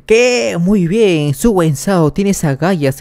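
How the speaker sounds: high-pitched indignant cry, easing off gradually; acted loud outburst. Father reacts to Su's defiance, acted loud outburst. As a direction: start high on a stretched cry, then settle. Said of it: "grita muy fuerte".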